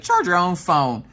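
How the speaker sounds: fed-up snap. Retold or imitated. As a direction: throw the words at him like the phone. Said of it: "I trying to chuck the phone".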